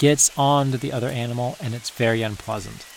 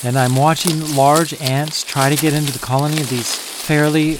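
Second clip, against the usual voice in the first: panting between phrases; breathless from the climb; out of breath; 4 dB louder than usual. Real, not acted. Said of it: "let me catch my breath".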